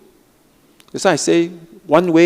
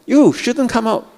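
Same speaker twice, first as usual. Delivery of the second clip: higher, slower mock scolding; scolding inner voice; 10 semitones higher, 4 dB louder than usual. Teacher playing someone scolding their own critical voice, higher mock scold. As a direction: tell the critic off, hammed-up. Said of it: "You criticize that critical voice".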